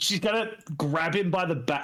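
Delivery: ordinary delivery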